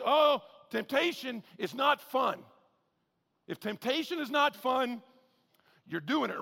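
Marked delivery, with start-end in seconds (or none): 0.0-2.4 mock preachy quote. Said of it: "Please don't tell your kids".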